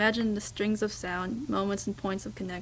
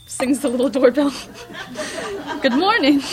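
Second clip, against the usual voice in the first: cheery shop greeting; 6 semitones higher, 10 dB louder than usual. Acted. Doorbell and cheery saleswoman greeting.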